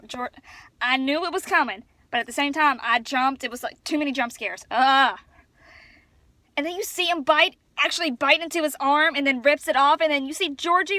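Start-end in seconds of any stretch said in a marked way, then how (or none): 4.7-5.2 loud "ugh" of exasperation; exasperated groan. Real, not acted. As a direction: groan at the jump scares. Recalling too many jump scares.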